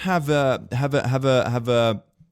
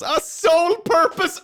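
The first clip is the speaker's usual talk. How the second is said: pun punchline; 4 dB louder than usual. Acted. Pun punchline yelled high.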